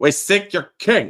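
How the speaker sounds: put-on Greek accent. Acting out a character's line while discussing a story: greek accent. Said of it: "in a Greek accent".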